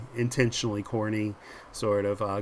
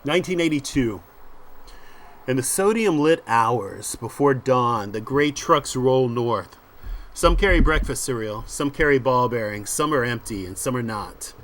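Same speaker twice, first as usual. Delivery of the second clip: measured scene-setting, slowing on key phrases; comic-book caption read aloud; dramatic story narration. A narrator's reading. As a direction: narrate the opening with deliberate weight.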